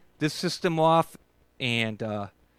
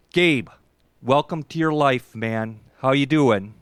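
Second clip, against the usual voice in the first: loud greeting; 6 dB louder than usual. Real, not acted. Host calls out greeting.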